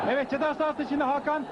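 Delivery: normal talking voice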